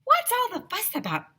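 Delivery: high puzzled voice; principal asking. A narrator's reading. Principal coming out to the playground asking. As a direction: ask what the fuss is.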